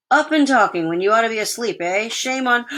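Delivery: mock scolding father. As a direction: tick them off briskly.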